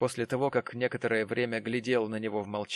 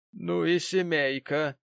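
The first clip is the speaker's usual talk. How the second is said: lady's exclamation; 7 semitones higher, 4 dB louder, slower than usual. Acted. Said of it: "воскликнула дама".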